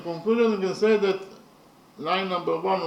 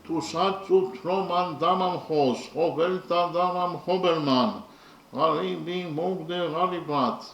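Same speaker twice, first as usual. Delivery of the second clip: measured chant-like verse reading; poem recitation. Real, not acted. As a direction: recite line by line in a steady, lilting meter.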